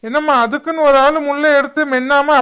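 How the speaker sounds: loud, incredulous scolding; doctor telling off a careless family, exasperated; exasperated rebuke. Acted. Doctor rebukes family over swallowed bones. (கண்டிக்கும் doctor குரல்)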